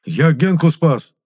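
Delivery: slow, high, loud indignant cry. A narrator's reading. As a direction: shout out your one good deed. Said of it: "вскричал Моня".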